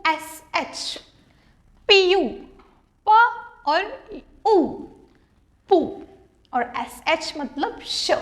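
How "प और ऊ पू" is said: "प" and "ऊ" said apart, then joined as "पू"; sounding out. Shown as a demonstration. Teacher shows students how to blend, careful sounding out.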